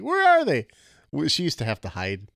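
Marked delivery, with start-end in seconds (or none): 0.0-0.7 high squeaky mock kids; kids demanding. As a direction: pipe up like hungry kids. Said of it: "They're just like".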